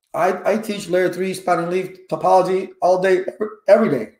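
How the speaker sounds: talking with hiccups. Real, not acted. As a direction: hiccups breaking into the words. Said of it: "got the hiccups".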